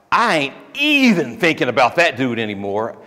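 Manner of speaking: even lifted in emphatic slang; stress on even. Retold or imitated. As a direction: lean into the word even, casually. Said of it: "it's emphatic".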